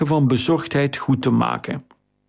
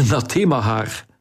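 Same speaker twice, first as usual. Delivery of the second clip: "Nathema haar" said lower through a laugh; relieved laugh; 4 semitones lower than usual. Acted. Theo laughing with relief at the friend's name.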